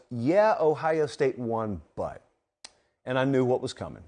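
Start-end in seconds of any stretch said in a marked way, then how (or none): 0.1-2.2 slow, drawn-out mock of grumbling fans; mocking fan whine. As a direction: drag it out like a sulky fan. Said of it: "what they said was".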